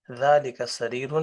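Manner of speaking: ذالک سریر read out slowly, every sound clear; careful slow Arabic. Shown as a demonstration. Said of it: "تلفظ اس کا ٹھیک کر لیں".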